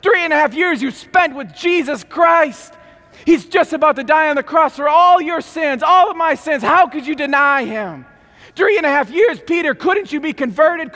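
high, loud exasperated scolding; irritated rebuke. Acted. Preacher scolding Peter for denying Jesus, high loud exasperated. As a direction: scold him in frustration. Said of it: "I'm irritated".

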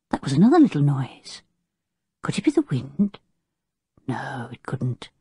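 hushed frightened whisper. A narrator's reading. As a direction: breathe it, scared in the dark. Frightened listening at night.

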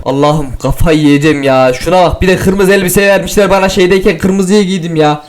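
ordinary talk, nothing marked

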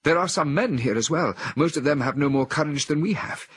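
a woman in a trance, full of anguish. A narrator's reading. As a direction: confess her shame and despair. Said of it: "continued in anguish".

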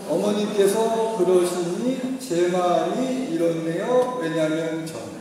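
daughter-in-law calmly stating feelings; polite I-message. Shown as a demonstration. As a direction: speak the formula carefully to your mother-in-law. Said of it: "시어머니한테 화내는 기술".

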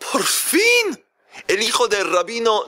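delighted dad thinking the match is perfect; father guessing the groom with rising hope, in a high eager voice; hopeful father. Acted. Father hopes for a rabbi's son.

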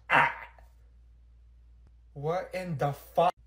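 ordinary delivery

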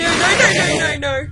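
loud, high, rapid-fire cries; real panic. Real, not acted. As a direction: yell it in sudden alarm. Startled by danger in game.

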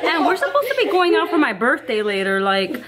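reality tv confessional. Acted. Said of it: "I'm doing a confessional right now".

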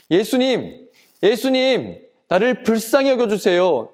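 acted crying out. Blind man undaunted by the crowd, crying out to Jesus. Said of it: "더욱더 큰 소리로 외쳤어요".

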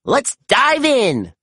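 high, slow eager cheer; rally the team. A narrator's reading. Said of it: "Zuma cheered".

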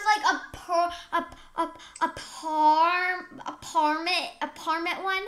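stumbling toward "parment", dropping a syllable; trouble pronouncing. Acted. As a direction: grope for the word, landing on "parment". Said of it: "pronouncing words because I".

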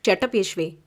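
mild stern husband; stern rebuke. Acted. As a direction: shut her up firmly. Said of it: "அதட்டினான்".

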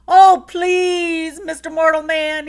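high, loud little begging voice; pleading leprechaun. A narrator's reading. Leprechaun pleading with Jamie for freedom, high and loud. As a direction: beg the big man. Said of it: "he pleaded".

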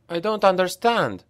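high, tearful wail. A narrator's reading. Franz wails to Reiner in the tunnel, tearful. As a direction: cry it out in distress. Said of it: "Franz wailed".

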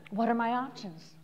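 soft, open what are my options; calm and curious; looking at the horizon. Shown as a demonstration. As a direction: ask it quietly, looking outward. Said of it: "Look at the horizon".

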